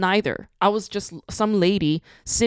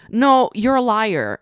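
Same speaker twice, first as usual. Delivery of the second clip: louder, pushy no; emphatic call-out; 5 semitones higher, 7 dB louder, slower than usual. Real, not acted. Vlogger calling out artists who claim to hide, emphatic. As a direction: call their bluff, hard.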